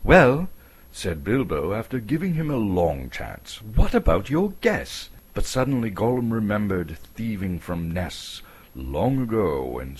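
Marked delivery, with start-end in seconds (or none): 0.0-0.5 much higher, louder hobbit voice; Bilbo. Acted. 3.6-5.1 much higher, louder hobbit voice; Bilbo. Acted.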